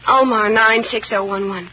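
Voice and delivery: slow, measured digits; giving a number. Acted. Sister giving brother the ranch's phone number, slowly and evenly.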